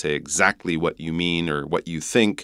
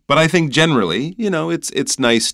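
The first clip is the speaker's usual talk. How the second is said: excited; 11 semitones higher, 5 dB louder than usual. Real, not acted. Sudden shift in tone.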